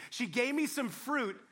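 slow, pointed blame-shifting; sulky husband passing the buck; blaming Adam. Acted. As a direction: drag it out, pinning it on her. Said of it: "Adam is playing the blame game".

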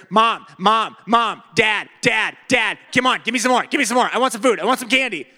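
loud whining Mom, Dad; whining kid. Retold or imitated. Kids beg parents for candy at the checkout, loud whining. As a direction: nag like a kid at the candy aisle.

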